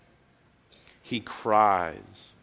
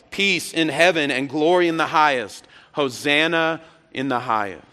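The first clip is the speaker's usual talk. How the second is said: retold joint yell; 3 semitones higher, 3 dB louder than usual. Preacher voicing both crowds together, half yell. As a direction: proclaim it as one crowd, easing off. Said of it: "together they would yell".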